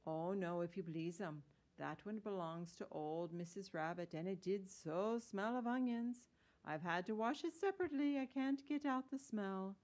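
fussy washerwoman. Acted. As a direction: let a mild complaint build in pitch and volume. Voices Mrs. Tiggy-Winkle in story.

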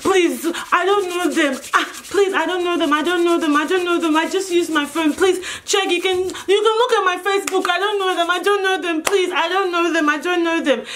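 desperate pleading. Retold or imitated. Retelling her plea to police, mildly desperate. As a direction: plead your innocence over and over.

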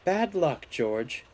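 high start falling gently in sympathy; sympathetic. A narrator's reading. Mavis consoles the crashed steamroller, sympathetically. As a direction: console kindly. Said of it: "she said sympathetically".

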